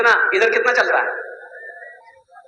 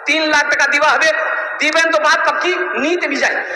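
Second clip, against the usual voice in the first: higher-pitched mock ultimatum; acted firm demand; 4 semitones higher than usual. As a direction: imitate a father naming his final price. Groom's father acted stating final price.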